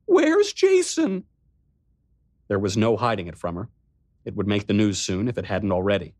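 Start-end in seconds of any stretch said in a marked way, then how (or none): 0.1-1.2 put-on high, slow, childlike whimper; whimpering like a child. Riley asking her brother about Jason, whimpering. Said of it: "She began to whimper like a child".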